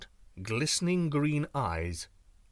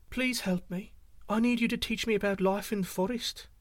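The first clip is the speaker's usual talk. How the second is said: pleading deer; 7 semitones higher than usual. A narrator's reading.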